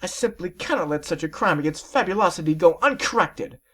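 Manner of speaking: whispered with narrowed eyes; hushed, determined lady whisper; scheming whisper. Acted. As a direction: whisper it like a vow. Rarity's determined aside.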